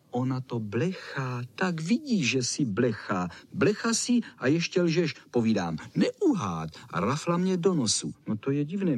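usual speaking voice

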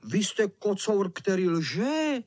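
lightly voiced accusing children; accusing boys. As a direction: drag out the last word accusingly.

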